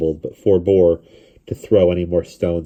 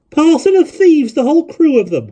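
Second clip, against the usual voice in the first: calling out; 9 dB louder than usual. A narrator's reading. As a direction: call it across the crowd. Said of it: "called Missus Evans".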